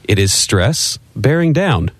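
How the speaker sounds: grand, over-inflected textbook reading; old radio announcer read. Acted. Cohost reads the beginners' book in announcer style. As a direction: read it like a vintage broadcasting manual. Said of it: "who used to read radio ads".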